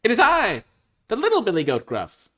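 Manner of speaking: high, loud storybook goat; little billy goat. Acted. Little goat answering the troll, high proud announcement. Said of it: "said the goat".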